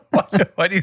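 squeaky gleeful gremlin giggle. Real, not acted. Laughing at gremlin voice.

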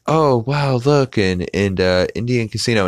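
high, lightly hammed-up wonder; mock amazement. Family arriving at the casino, high mock amazement. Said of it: "and they're like".

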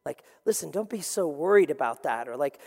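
an arm around the shoulder, soothing; gentle comforting. Retold or imitated. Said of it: "put their arm around you like".

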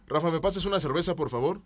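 courteous request with please; polite ask. Shown as a demonstration. Asking Rafa for a beer, politely. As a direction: ask nicely, rising. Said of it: "no es lo mismo que".

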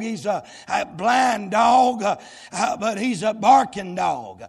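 full-force preaching. Acted. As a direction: preach it hard and drive every line home.

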